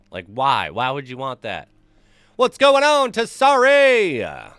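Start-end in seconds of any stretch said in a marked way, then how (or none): 2.3-4.5 high, loud streamer hello; booming high shout-out; excited greeting. Real, not acted. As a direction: call out the viewer's name with a big welcome. Greeting a chat viewer.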